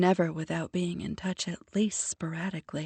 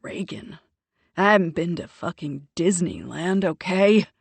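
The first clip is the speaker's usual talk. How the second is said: louder, snapping back impatiently; impatient interjection; 7 dB louder than usual. Acted. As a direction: cut her off, fed up. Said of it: "he interjects impatiently".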